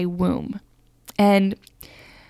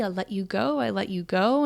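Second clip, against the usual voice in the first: softer, tender letting go; open-hearted release; 5 dB quieter than usual. Retold or imitated. She gently releases the frightened spirit, soft and tender. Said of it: "I kinda just open my heart and I say".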